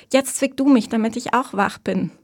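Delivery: high, loud, eager demand; giddy excitement; excited. A narrator's reading. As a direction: urge your sister on in thrilled disbelief. Thrilled sisters pinch each other.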